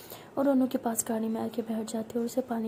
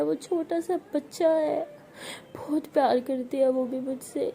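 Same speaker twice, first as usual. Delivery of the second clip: choked-up crying; 2 semitones higher than usual. Acted. Anu tells the doctor her friend only acts strong, crying. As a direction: speak through rising tears.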